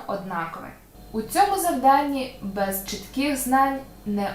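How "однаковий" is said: однаковий stressed on А; correct stress. Shown as a demonstration. Teacher confirms the right stress. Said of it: "Звісно".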